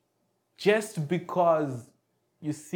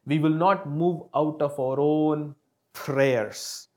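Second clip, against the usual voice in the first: prayer. Acted. Leads prayer.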